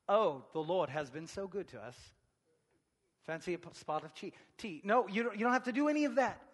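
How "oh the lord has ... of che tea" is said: mock proper etiquette. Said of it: "follow proper etiquette".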